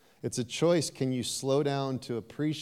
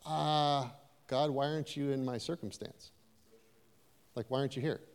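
quiet plea; 6 dB quieter than usual. Retold or imitated. Voicing a desperate prayer.

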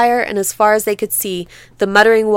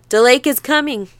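gasped; 4 semitones higher than usual. Acted. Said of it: "Tea Cake gasped".

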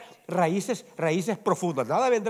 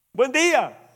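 gentle reply; 7 semitones higher, 4 dB louder, slower than usual. Retold or imitated. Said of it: "la blanda respuesta aplaca".

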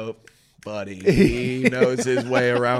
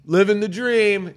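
higher, slow, drawn-out catchphrases; easygoing catchphrase guy; 6 semitones higher, 4 dB louder than usual. Acted. Podcaster imitating the groom who says it over and over, slow high catchphrases. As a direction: stretch each stock phrase out, pitched up. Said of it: "he's the guy who says".

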